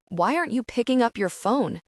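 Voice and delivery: shouting. Acted. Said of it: "he shouts".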